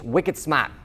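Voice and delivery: put-on light Boston accent. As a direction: say it with a touch of Boston. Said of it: "in his Boston accent".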